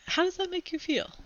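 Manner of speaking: breathy whispered therapist question; whispered counselor. Acted. Counselor asks Rob in story.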